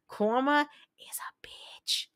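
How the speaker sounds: drawn-out, half-whispered dig; slow, pointed repeat. Real, not acted. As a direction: spell it out slowly for John, half whispered. Repeats it slowly for effect.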